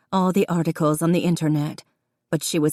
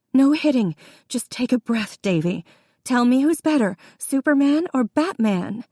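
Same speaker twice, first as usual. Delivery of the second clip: urgent redirect; 7 semitones higher than usual. A narrator's reading. Jessica redirecting her brother mid-fight, urgent. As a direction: urge him to calm down.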